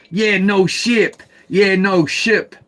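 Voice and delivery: slow "Yeah, no ship" with "ship" said clearly as in a boat, not a swear; careful "ship". Shown as a demonstration. Explaining to viewers the word is ship, said slowly and clearly. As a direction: spell out the sound of "ship" so it can't be misheard. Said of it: "S H I P. Ship. Like a ship sailing".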